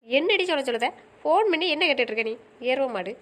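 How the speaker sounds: imitating a friend's mild telling-off; mock-cross friend ticking someone off; retold scolding. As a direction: scold as she did, lively then dropping. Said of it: "எதுக்கு அவ திட்டுனா".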